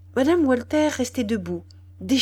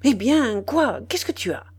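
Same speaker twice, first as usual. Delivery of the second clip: startled; 3 semitones higher, 5 dB louder than usual. Acted. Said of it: "Il demanda effaré".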